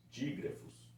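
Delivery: "dígrafos" dito baixinho como revelação; soft reveal of the term; revealed softly. Shown as a demonstration. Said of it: "A gente chama de". ("dígrafos" sussurrado)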